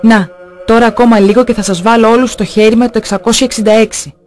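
a hint of a threatening demon speaking through a woman; lightly voiced possessed woman, slowing at the end; wild menacing male voice. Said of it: "με μια άγρια απειλητική ανδρική φωνή". (ελαφριά υπόδειση άγριας απειλητικής ανδρικής φωνής)

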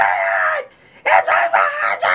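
low loud growling shout; deep monster voice. Pretend. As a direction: boom it like a monster. Dramatic monster reveal.

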